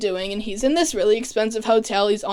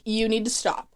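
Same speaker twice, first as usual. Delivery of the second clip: angry rant; 3 semitones higher than usual. Retold or imitated. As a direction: tell him off, half-acted fury. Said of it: "and she's angry".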